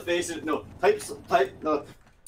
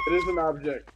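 shouting. Real, not acted. Arguing over the guessing game.

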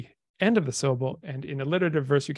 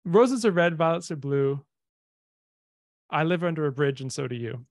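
rhyme recital. Shown as a demonstration. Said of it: "do you know a good one of these?".

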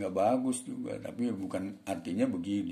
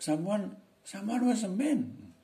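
slow, stumbling repeat of someone, higher; halting speech; 11 semitones higher, slower than usual. Shown as a demonstration. Servant fumbles the answer to his master, halting. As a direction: falter over the words. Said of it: "ngomongnya tersendat".

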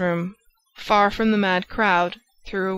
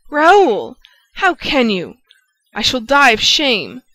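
much louder, higher cry of shame; anguished cry; 5 semitones higher, 8 dB louder, slower than usual. A narrator's reading. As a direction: cry out, stung by his insult. Christine wounded by insult.

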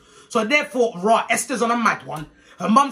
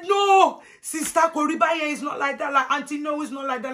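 high-pitched appeasing plea; acted placating protest; 6 semitones higher than usual. Church folk placate offended mom, high pleading.

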